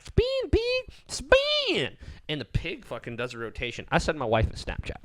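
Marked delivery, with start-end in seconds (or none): 0.0-2.0 high sing-song command to a pet; high pig command. Retold or imitated. Lady telling her pig to spin, high coaxing voice. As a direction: coax the pig high and bright. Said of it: "she's like".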